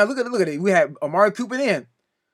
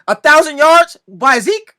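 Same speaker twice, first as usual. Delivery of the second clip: incredulous; 5 semitones higher, 9 dB louder, slower than usual. Real, not acted. Ranting about excuses for Cowboys.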